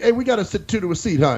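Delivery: brisk quoted question, voice lifted; imitating the helper. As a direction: rattle it off as the other guy. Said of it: "He's like".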